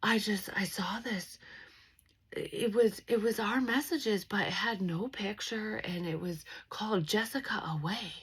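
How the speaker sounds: high, whispered imitation of grandma; imitating grandma. Grandma quoted reading message.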